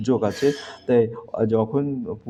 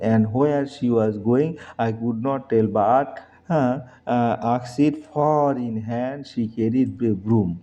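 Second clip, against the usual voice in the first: slow, careful recitation of the lines; slow poem reading; much slower than usual. Shown as a demonstration. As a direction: read it out slowly for the class. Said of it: "teacher reads the poem slowly". (ধীরে কবিতা পাঠ)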